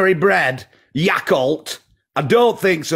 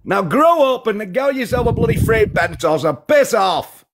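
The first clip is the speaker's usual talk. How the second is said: raised, shouted dismissal; angry shout; 4 semitones higher than usual. Real, not acted. Yorkshire caller shouting down the vegan host, angry. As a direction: bark him off the line.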